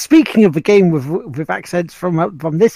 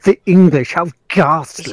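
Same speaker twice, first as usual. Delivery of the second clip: mock English accent; 4 dB louder than usual. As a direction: sneer it like a posh English snob.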